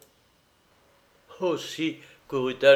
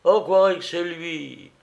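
laughing cook; 4 semitones higher, 5 dB louder than usual. A narrator's reading. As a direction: tease in a high, amused cook's voice. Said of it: "La rieuse cuisinière".

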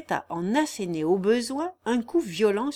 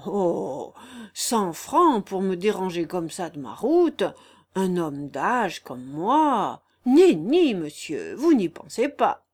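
lightly voiced crafty old countryman; sly vagabond; 5 dB louder than usual. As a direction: toy with the listeners in a mild rustic character. Raguet, old vagabond, feigns reluctance.

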